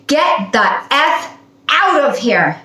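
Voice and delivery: slow, drawn-out mock angry curse; retold cursing. Store worker cursing her out, slow mock anger. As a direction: spit it out slowly like an angry clerk. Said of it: "he started cursing me out".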